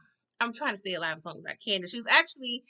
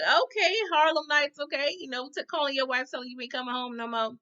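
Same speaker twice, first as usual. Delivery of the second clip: high teasing; 5 semitones higher than usual. Retold or imitated. Vlogger teasing character.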